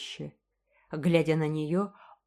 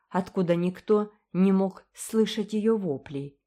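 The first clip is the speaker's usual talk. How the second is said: usual speaking voice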